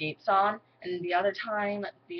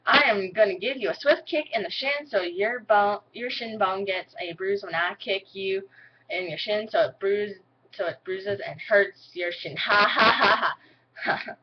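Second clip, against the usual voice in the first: country accent. Shown as a demonstration. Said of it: "I'm gonna say this four".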